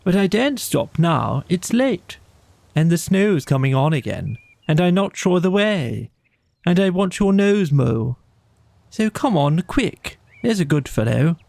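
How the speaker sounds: lightly voiced Rat urging his friend on; a hint of a brisk Rat, pressing to move on; Rat, hurried. Rat calls urging Mole on.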